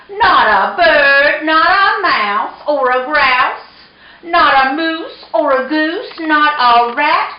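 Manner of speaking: high, emphatic motherly lecture; lecturing mama cat. A narrator's reading. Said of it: "said his mother".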